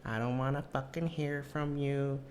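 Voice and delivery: put-on high, slow Latina-accented telling-off; mock Latina accent. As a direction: imitate a Latina ex drawing out each warning. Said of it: "you know, the Latinas".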